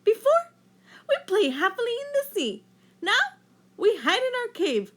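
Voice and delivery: high, loud, urgent fish voice; rally your friends, high and loud; Rainbow Fish declaring. A narrator's reading. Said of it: "declared Rainbow Fish".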